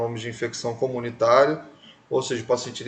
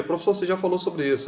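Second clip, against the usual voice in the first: higher-pitched student objection, lightly acted; imitated student; 5 semitones higher than usual. Teacher quoting a student who said it was already covered, lightly imitated. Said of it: "Me perguntaram ali no dia".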